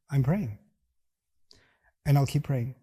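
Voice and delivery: even, composed reply; calm, steady. Shown as a demonstration. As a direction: say it without raising or lowering the voice. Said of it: "No rise of voice, no lowering of voice".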